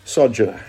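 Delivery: "Sojourner" stressed on SO; "Sojourner" as a model word, SOJ-uh-nuh; first-syllable stress. Shown as a demonstration. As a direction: punch the opening syllable of "Sojourner". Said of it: "put the emphasis on the first syllable".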